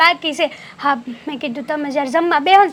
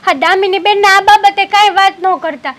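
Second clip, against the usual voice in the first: louder, pressing plea to stop her; anxious, raised plea to the mother-in-law; urgent pleading; 2 semitones higher, 5 dB louder than usual. Acted. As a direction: hurry to beg her not to say anything.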